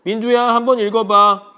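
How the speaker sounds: high, loud dad voice; acted-out father's call; dad calling to child. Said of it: "토마스 아빠가 민주한테 얘기합니다".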